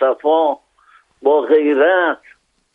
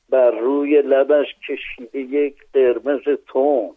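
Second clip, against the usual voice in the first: poem recitation; 3 semitones lower than usual. Acted. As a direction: recite the quatrain with rhythm. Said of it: "من اول یه رباعی بخونم".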